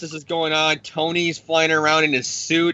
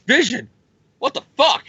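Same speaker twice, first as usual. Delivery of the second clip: shocked yell; 9 semitones higher than usual. Retold or imitated. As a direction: yell it up high in disbelief. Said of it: "Cap's like".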